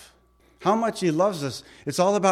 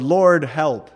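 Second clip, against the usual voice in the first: retold cry for help, somewhat louder; mock yelled plea; 6 dB louder than usual. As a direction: call out a short, urgent prayer. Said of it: "he yelled".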